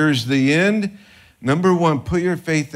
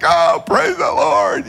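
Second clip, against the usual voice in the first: much higher, louder, slow cry of praise; joyful praise shout; 5 dB louder, slower than usual. Retold or imitated. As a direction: call out praise like a moved believer. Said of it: "They're like".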